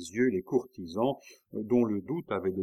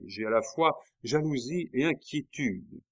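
« jalousie » appuyé, plus aigu; accent sur jalousie; 5 semitones higher than usual. A narrator's reading. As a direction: appuyer nettement le mot « jalousie ». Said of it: "Elle appuya sur le mot jalousie". (en insistant sur « jalousie »)

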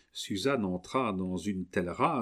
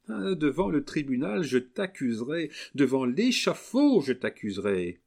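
threatening; 6 semitones higher, 4 dB louder than usual. Acted. Suzanne threatens Camille.

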